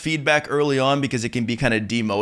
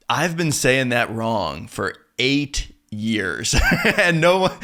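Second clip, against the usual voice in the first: shocked inner realization; slower than usual. Retold or imitated. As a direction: realize you've been wrong for years, aghast. I think in my head.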